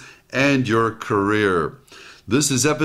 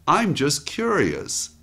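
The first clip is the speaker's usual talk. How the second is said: gentle curiosity; 2 semitones higher, slower than usual. Retold or imitated. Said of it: "much nicer than saying".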